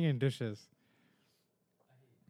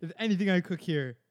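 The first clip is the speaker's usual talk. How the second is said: furious chef; 6 dB louder than usual. Retold or imitated. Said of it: "where he's like".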